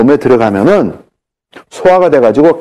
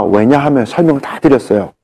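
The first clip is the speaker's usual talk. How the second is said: ordinary talk, nothing marked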